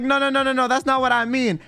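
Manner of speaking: frantic denial. Retold or imitated. Retold denial, repeated.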